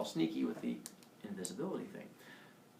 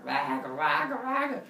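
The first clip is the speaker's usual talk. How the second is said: big monster; 2 semitones higher, 3 dB louder, slower than usual. Retold or imitated. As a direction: imitate a big monster's roar. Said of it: "the big one comes out".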